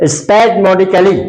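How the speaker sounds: spasmodically sounded out very slowly, syllable by syllable; slow pronunciation demo. Shown as a demonstration. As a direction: drag out spasmodically for the learner, falling at the end. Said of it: "क्या उच्चारण है?". (spasmodically को बहुत धीरे, एक एक अक्षर बोलकर)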